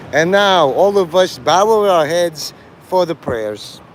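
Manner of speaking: lightly put-on Chicago accent, drawn-out vowels; mock Chicago accent. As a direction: play at a Chicago accent, slowly. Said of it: "gotta mock it in a Chicago accent".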